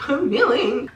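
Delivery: giggling through the words; laughing. Real, not acted. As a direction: laugh as you say it. Laughs mid-sentence.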